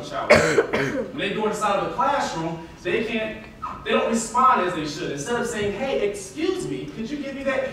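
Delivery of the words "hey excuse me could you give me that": politely asking, gently; a courteous ask; polite request. Shown as a demonstration. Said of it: "That's how they talk".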